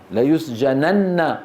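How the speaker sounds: slow ليسجنن with long doubled n and final a; heavy emphatic noon. Shown as a demonstration. Teacher shows the class a heavy noon, ليسجنن with doubled n. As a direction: hold the n of ليسجنن, release on "na". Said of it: "هذه ثقيلة".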